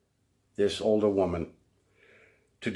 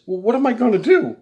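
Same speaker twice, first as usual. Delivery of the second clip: whiny accusation; 8 dB louder than usual. Retold or imitated. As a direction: play her as hurt and childish. Mimicking woman's plea.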